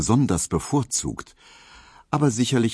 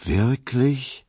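higher-pitched, sympathetic question; 7 semitones higher than usual. A narrator's reading. Suitor hears of her stepfather, sympathetic. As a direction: respond with feeling, voice lifted. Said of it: "rief Emil Kubinke mitfühlend".

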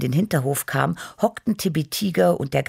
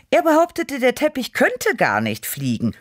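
indignant snort; 11 semitones higher than usual. A narrator's reading. Cat fuming about the sultan's complaint, indignant snort. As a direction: huff it out, offended for the carpet. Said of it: "schnaubte ich".

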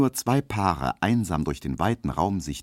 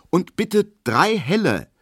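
high, louder firm order; firmly and quickly; 13 semitones higher, 5 dB louder than usual. Acted. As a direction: cut off any objection. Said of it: "sagt Emil Kubinke bestimmt und so schnell". (Emil bestellt bestimmt und schnell)

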